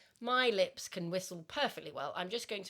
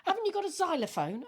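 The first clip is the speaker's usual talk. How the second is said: high, laughing question; 9 semitones higher, 3 dB louder than usual. Retold or imitated. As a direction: ask it while laughing. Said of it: "Yana said to me".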